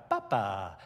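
low falling "Papa" from the crowd; crowd calling Papa. Retold or imitated. Preacher imitating the crowd's second call. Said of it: "And second time".

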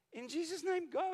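high, loud command to leave; commanding rebuke. Retold or imitated. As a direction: cast it out with full authority. Woman rebuking a creature.

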